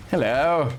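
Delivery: cartoonish British "hello"; mock-British greeting, quoting a cartoon; bad British accent. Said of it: "it's a very bad British accent".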